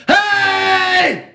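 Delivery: dad calling out to strangers in the night; shout. Retold or imitated. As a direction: bellow out the car window to the street. Yelling out car window.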